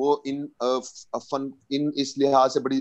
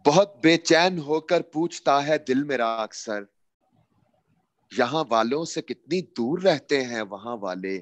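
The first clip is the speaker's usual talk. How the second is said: stately nazm recitation. Acted. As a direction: recite the poem with feeling. اس کا عنوان ہے.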